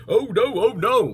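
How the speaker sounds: a buffalo's startled cry. Acted. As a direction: cry it out in alarm. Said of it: "cried the buffalo".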